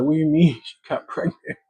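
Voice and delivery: laughing disbelief, pitch up; mock heartbreak with a laugh; heartbroken disbelief. Hearing cousin's friend got pregnant, laughing disbelief. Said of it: "I was like".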